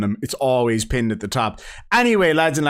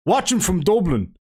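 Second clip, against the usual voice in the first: higher, put-on Dublin accent; broad mock Dublin accent; 5 semitones higher than usual. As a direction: quote it in a hammed-up Dublin accent. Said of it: "have to read this in a Dublish accent".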